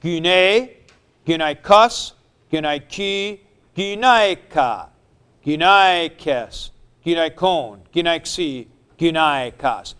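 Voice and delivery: paradigm recited with a shifting accent; gyne, gynaikos, gynaiki listed one by one with a moving stress; reciting forms. Shown as a demonstration. Teacher reciting the noun forms, steady list. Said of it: "Let's look at the forms for gyne".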